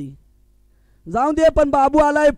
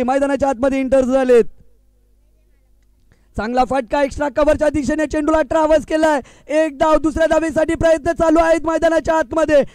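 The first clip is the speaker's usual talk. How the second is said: fast formal commentary; play-by-play; faster than usual. Acted. Commentator giving fast formal ball-by-ball call. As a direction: rattle off the live call.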